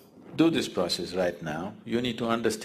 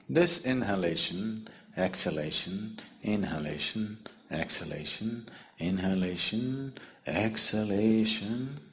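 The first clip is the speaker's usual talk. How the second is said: "inhalation, exhalation" chanted evenly, each rising at the end; rhythmic breath count; 3 dB quieter than usual. Shown as a demonstration. Teacher showing listeners each passing breath, in measured rising rhythm. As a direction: list each breath with a lilting rise, stretching the final "exhalation".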